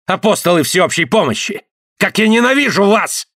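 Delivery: high, rising rant against everyone; rising hateful tirade. Acted. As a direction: build into a furious tirade.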